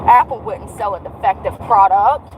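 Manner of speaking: deadpan sarcasm; sarcastic. Real, not acted. Frustrated watch owner on Apple's products, sarcastic. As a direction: say it as if sincere, meaning the opposite.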